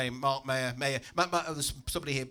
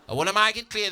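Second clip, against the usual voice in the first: raised-pitch, insistent instructor voice; workshop instructor; 4 semitones higher, 5 dB louder, faster than usual. Acted. Instructor addressing the speed awareness workshop, insistent and high. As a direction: lay down the rules as an officious instructor. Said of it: "the fella says".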